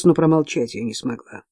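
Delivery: usual speaking voice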